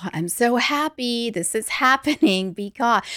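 sigh, then push out cheer through a laugh; forced gratitude. Retold or imitated. Coach self-talking mid total shit show, with forced, laughing happiness. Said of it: "just in the midst of".

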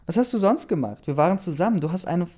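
high-pitched, agitated rant; furious accusation. A narrator's reading. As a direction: fire off indignant accusations at a cheating partner. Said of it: "Ich war so wütend".

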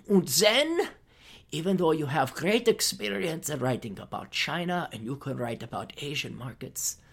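hushed scheming instructions; mock brainwasher. Scene: voicing her Chinese handlers brainwashing her, mock sinister. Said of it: "she is the Manchurian candidate".

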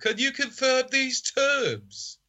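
mock-formal, exaggerated Brummie; sophisticated Brummie. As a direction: press the seller politely in thick Brummie. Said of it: "I'm going sophisticated Brummie".

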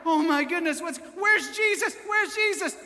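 high, loud panicked disciples; freaking out. Acted. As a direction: cry out in mock panic for help. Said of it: "they're freaking out".

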